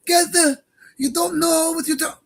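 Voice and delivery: put-on high-pitched parody of a heavy Israeli Jewish accent; mocking high heavy-accent impression; mock triggered accent. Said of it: "No other Jew in the world talks like that".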